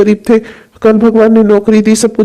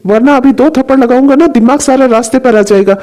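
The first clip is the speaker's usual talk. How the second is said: angry father scolding. Acted. Father scolds son over milk.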